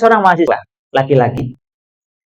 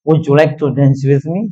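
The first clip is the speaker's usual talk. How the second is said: slow British English line; English accent; 3 semitones lower than usual. Shown as a demonstration. Preacher demoing a British English invitation to dance, slowly. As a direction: put on a British accent to ask her to dance. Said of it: "saya pakai dialeknya, dialek Inggris".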